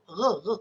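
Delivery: "Reh, reh" with a strong uvular r at the back of the throat. Shown as a demonstration. Lecturer showing students the strong Kedah r. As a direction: rasp out "Reh" hard from the uvula. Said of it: "Kuat sangat".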